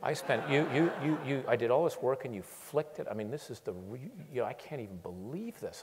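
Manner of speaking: loud, high, sputtering fury; mock-livid stammering tirade; retold angry outburst. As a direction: rant at the boss who flicked your work away. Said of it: "I was livid".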